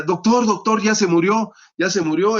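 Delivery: high, loud frightened call to the doctor; panicked cry. Retold or imitated. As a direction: shout it in alarm, voice jumping up. Panicked student calling the doctor.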